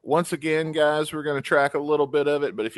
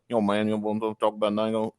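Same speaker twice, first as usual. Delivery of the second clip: lightly imitated monotone mumble; George Clooney as Boomhauer's cousin. Friend imitating George Clooney talking like Boomhauer, slurred mumble. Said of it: "you can recognize his voice, but he's like".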